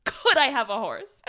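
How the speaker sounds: Could hit loudly at the start, imitating him; comic over-emphasis on the word Could; stress on Could. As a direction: lean hard on Could in a mock request. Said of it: "the emphasis on the word could".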